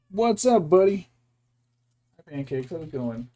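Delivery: high, loud pet-talk voice; calling sweetly to the bird. Real, not acted.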